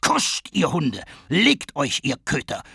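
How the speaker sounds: leicht gespielter Befehlston, langsam; Parnells Kommando, angedeutet. Retold or imitated. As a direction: mildes Nachahmen eines strengen Führers. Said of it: "so hat er sie behandelt". (Henchy ahmt Parnell nach, der seine Leute zurechtweist, leicht befehlend)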